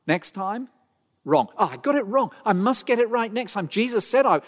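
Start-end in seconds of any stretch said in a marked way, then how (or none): 1.6-4.4 lightly voiced Peter, a little higher, shrugging it off; a hint of a breezy excuse; mock Peter excusing himself. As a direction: play Peter brushing off the failure, a touch higher. Peter's imagined self-excuse.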